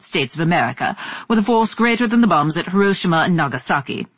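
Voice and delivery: formal BBC newsreader; news anchor. Acted. BBC radio announcer reading news.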